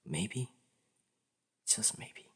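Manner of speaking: soft, hushed wishful thought; quietly daring to hope; tentative hope. Acted. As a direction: let it drop to a near whisper. Tentative private hope about crush.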